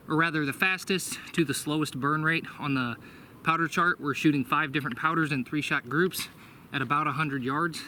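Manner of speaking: out of breath, panting between phrases; breathless from running to the target. Real, not acted. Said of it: "I'm sorry if I'm panting".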